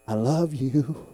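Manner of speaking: slow, drawn-out gentle assurance; tender, as God. Acted. God repeating it to a grumpy man, slow and tender. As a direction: stretch it out lovingly, lifting at the end. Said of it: "You know how he says it to me?".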